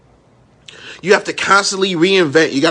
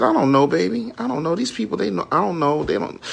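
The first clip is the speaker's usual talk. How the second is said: softer, grandmother murmuring to grandson; hushed grandmother aside; 6 dB quieter than usual. Retold or imitated. Grandmother quietly answering her grandson, a hushed aside. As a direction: lean in and say it under your breath, like grandma.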